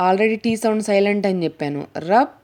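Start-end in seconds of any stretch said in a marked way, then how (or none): 2.1-2.3 రప్, pause, సీ as separate chunks; detached syllables రప్ and సీ, with no T; broken into syllables. Shown as a demonstration. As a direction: split the word ending into రప్... సీ. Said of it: "విడదీసి పలకడం ద్వారా".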